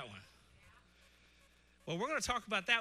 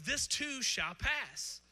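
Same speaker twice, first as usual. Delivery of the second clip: slow quoted saying; 5 semitones higher, much slower than usual. Retold or imitated. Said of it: "Another one is".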